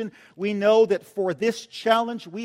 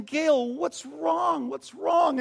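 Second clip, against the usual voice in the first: urgent, higher questioning; concerned pastor; 7 semitones higher, much slower than usual. Retold or imitated. Youth pastor asking crying Gail, worried and urgent. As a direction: ask her anxiously. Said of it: "and I'm saying".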